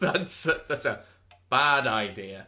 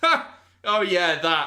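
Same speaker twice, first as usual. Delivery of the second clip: high-pitched, loud, nonchalant and casual; 6 semitones higher, 5 dB louder than usual. Retelling a dream, imitating Tom's reaction to being confronted. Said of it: "try and mimic this as best as possible".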